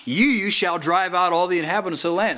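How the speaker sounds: an assuring promise with a lift on "You"; a reassuring promise, "You" stressed warmly; read like a promise. Shown as a demonstration. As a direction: give it as a gift, not an order. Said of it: "if you read it like a promise".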